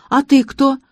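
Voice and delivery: put-on high little-girl question; childlike girl. A narrator's reading. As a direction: ask anxiously like a small child. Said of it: "по-детски".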